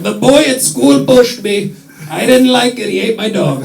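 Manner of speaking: put-on tattle like a little kid to his parents; child tattling. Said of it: "a child telling their parents".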